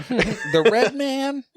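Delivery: high, slow and laughing through the words; cracking up mid-question. Real, not acted. Cohost laughing at the daughter's name for Mario.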